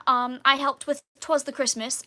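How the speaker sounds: lightly put-on British accent. Shown as a demonstration. Listing past shows for viewers, still in British accent. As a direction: keep up the stagey British voice. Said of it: "I can turn off the British accent now".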